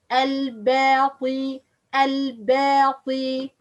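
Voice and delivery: slow "al-bati", light ba then heavy ta; light-to-heavy drill. Shown as a demonstration. Teacher practises step by step, light into heavy. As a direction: draw out "al-bati", moving from thin b to thick t. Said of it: "move from light letter to".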